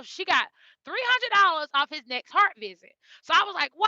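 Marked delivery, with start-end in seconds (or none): 3.8-3.9 excited, louder exclamation; mildly acted amazement. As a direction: retell a thrilled reaction. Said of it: "I was so excited".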